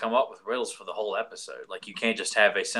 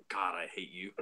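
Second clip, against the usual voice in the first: laughing through grudging annoyance; 4 semitones lower, 10 dB quieter than usual. Retold or imitated. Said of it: "the Riddler's like".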